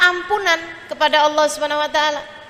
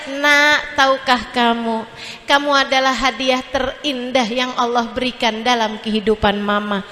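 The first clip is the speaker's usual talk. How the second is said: put-on soft, lower, loving words to a child; tender mother; 4 semitones lower, 3 dB quieter than usual. Shown as a demonstration. Mother tells her sulking child he is a gift, tenderly. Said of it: "bilangin sama dia".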